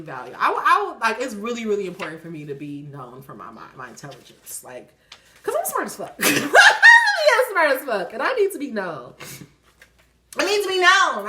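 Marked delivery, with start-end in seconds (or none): 5.4-11.3 shouted through laughter, higher; laughing brag. Real, not acted. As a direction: crow it out while laughing. Boasting, laughing at herself.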